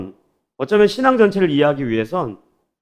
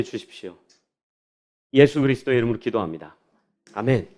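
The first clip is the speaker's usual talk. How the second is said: prayer; 4 semitones lower than usual. Acted. Closing prayer before sermon.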